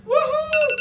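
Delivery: excited whoop. Real, not acted. Celebrating at the end.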